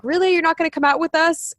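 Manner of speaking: high, disbelieving "Really?"; mock their surprise at staying home; incredulous friends. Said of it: "people were still like".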